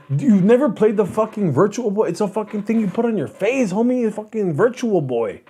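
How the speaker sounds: high, insistent homeboy impression; incredulous cousin. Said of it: "He's like".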